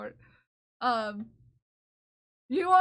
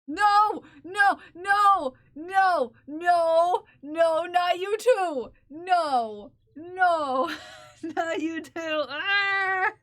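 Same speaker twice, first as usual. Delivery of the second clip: hammed-up wailing "No!", much higher and louder; mock despair; 3 semitones higher, 6 dB louder, much slower than usual. Streamer wailing at chat's sass, hammed-up despair. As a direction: melodramatic cries at teasing chat, playfully overdone. Chat teases her about scarf challenge.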